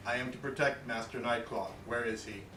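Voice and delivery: lightly robotic, even monotone. Acted. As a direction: speak like a machine guard. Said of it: "in my best robotic voice".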